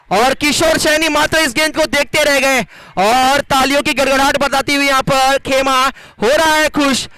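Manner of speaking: lively cricket play-by-play; live commentary. Acted. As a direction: call the match as it happens.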